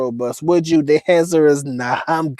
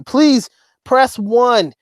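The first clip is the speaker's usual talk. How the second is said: mock automated phone prompt; 7 semitones higher, 3 dB louder, much slower than usual. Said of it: "mock phone menu prompt".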